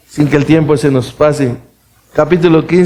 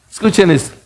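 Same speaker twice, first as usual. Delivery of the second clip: ordinary talk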